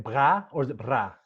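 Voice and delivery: "Bra" tried two ways, guttural against plain; guttural or not. Shown as a demonstration. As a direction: test "Bra" with a throat sound, then without. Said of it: "is it more the gut".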